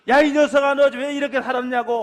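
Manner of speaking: a hint of a stern father's rebuke; mock scolding. Preacher voicing a father who might scold his son, mildly.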